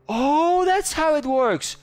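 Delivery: high, loud discovery; surprised delight. Real, not acted. Player discovering how the mobile garage works, high delighted surprise. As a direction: suddenly get it, delighted.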